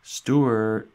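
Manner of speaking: loud high call across the house. A narrator's reading. Family calling for tiny Stuart through the house, loud call. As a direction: shout his name to find him. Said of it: "the house often echoed with cries of".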